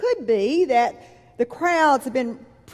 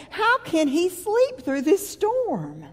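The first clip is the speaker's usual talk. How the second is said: frightened disciples; 7 semitones higher, slower than usual. Retold or imitated. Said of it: "they're going".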